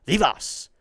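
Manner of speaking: "Vivas" said with relish and emphasis; emphatic name. Shown as a demonstration. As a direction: punch out "Vivas" as a name on its own. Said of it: "say it with emphasis".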